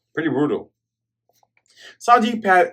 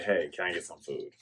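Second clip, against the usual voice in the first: weak plea; 8 semitones lower, 13 dB quieter than usual. Retold or imitated. Starving pirate begs weakly.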